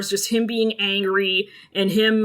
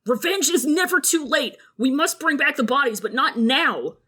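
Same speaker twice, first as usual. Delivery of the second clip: higher, insistent reasoning; urgent appeal; 5 semitones higher than usual. Acted. Brother urging delay of revenge, urgent appeal. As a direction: press the point, easing down at the end.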